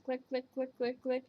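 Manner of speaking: even, repeated clicking imitation; imitating button clicks. Showing listeners how the cane sounds like a button, clicking imitation. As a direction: tick out identical button clicks. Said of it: "sounds like a button you're clicking".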